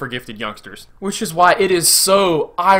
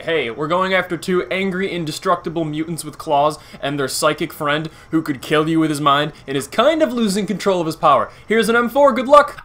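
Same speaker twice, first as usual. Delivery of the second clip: lightly acted briefing officer; mock mission briefing. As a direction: send them off with mock cheer. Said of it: "the mission briefing had to be along the lines of".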